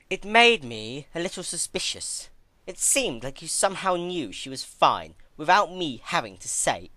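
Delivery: lightly voiced Twilight, scornful and cutting; a touch of cold Twilight. Twilight scolding the captive princess, scornful. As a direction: lay out her faults with cold contempt. Twilight's long accusing speech.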